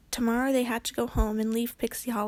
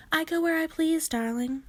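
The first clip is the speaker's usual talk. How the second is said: sniffy; 6 semitones higher than usual. Acted. Snooty fairy brushing Kate off sniffily. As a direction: look down your nose at her. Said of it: "with a sniff".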